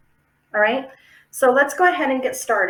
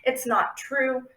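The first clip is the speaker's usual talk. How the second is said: dismissive brain. Retold or imitated. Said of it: "Instead of going".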